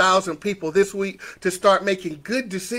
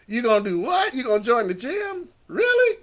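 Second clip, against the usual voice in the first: can't believe what you're hearing; mock incredulity; 3 semitones higher than usual. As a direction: question it in teasing disbelief. Mock-questioning the listener's excuses.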